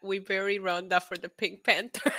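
laughing. Real, not acted. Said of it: "can't stop laughing at".

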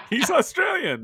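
high, loud mock shout of the obvious; retold exclaim. Telling brother-in-law the golfer is Australian, loud mock shout. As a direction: blurt it out like it's obvious. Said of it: "I was like".

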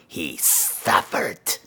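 low, soft and very slow; sinister slow gloat. Acted. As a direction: savor "he suffered" quietly and slowly.

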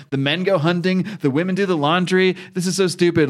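scoffing, indignant retelling; mock outraged rant. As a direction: huff about the chores like Donna. Donna ranting about patriarchy.

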